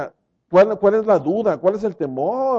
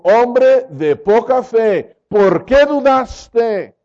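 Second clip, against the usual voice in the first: slow, weighty rebuke; disappointed Jesus; 4 semitones higher, 3 dB louder, much slower than usual. Acted. Jesus rebuking sinking Peter, slow disappointed voice. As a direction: let each word land in sorrow. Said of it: "lo sostuvo y le dijo".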